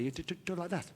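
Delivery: "talk" repeated with impeded, front-of-mouth t sounds; "talk, talk" mispronounced, tongue tapping on t; speech defect. Shown as a demonstration. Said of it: "a slight speech defect".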